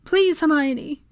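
high, loud, slow appeal; drawn-out desperate plea; pleading. A narrator's reading. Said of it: "Molly tried again".

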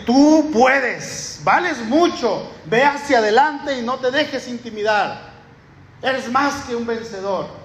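voz más aguda y dulzona de mensaje de ánimo; mensaje motivacional en burla. Retold or imitated. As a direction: imita con ironía una frase bonita de WhatsApp. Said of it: "y que diga". (pastor imitando con ironía un mensaje de Piolín)

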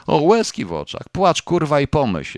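contemptuous husband. Acted. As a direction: sneer at her tears with a burst of anger. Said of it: "zaczął mówić przez zęby".

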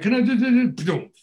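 high, rapid-fire nonsense syllables; imitated babble. Barry with the door slammed on him, high imitated babble. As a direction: sputter a run of syllables, dropping at the end. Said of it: "He's like".

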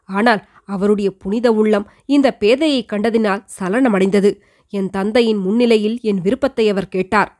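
put-on an old queen telling her son of her youth; elderly queen recounting. The queen tells her son Madhurantakan how she married, lightly voiced.

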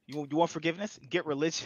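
quiet menace. Retold or imitated. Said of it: "He was like".

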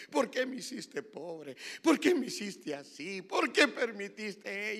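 imitated plaintive protest, drawn out; mock-tearful reproach, stretching the words; reproachful lament to God. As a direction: plead and complain, building in force. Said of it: "yo lloraba y le reclamaba a Dios".

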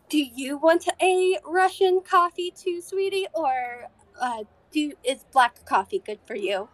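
lightly voiced sweet waitress; old lady waitress. Waitress asks Alaric about his coffee, sweet granny voice. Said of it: "looks over at Alaric and goes".

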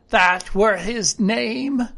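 drawn-out sailor talk; castaway character. Acted. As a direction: confirm it slowly as a castaway.

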